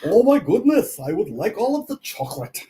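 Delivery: Vlad the chocoholic bat voice. Acted. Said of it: "don't know what accent that was".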